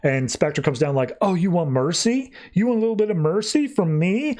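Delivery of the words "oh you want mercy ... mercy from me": higher, rising mocking questions; mock incredulous. Spectre answering Anton's plea for mercy, mockingly incredulous. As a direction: throw the plea back in disbelief.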